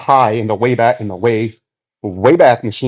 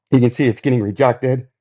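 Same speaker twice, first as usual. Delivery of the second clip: out of breath. Real, not acted. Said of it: "Oh, I can't catch my breath".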